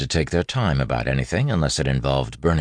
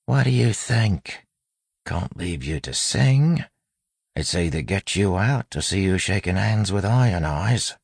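put-on street-tough accent; 6 semitones higher than usual. A narrator's reading. Wayne explaining the rescue to the bandit, street-tough accent. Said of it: "speaking in the street-tough accent".

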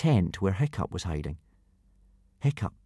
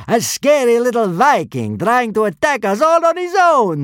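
loud, mocking soldier's bark; gruff barked parade orders; 14 semitones higher, 8 dB louder than usual. A narrator's reading. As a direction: bark it to amuse the troops. Centurion mocking captured Fishlegs.

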